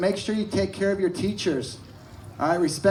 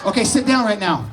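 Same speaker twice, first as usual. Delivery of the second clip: drill instructor; 4 semitones higher than usual. Pretend. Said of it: "take part in the first day of Marine Corps basic training".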